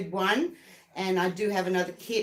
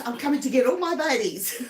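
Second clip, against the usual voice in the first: laughing mock threat; 5 semitones higher than usual. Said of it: "he goes".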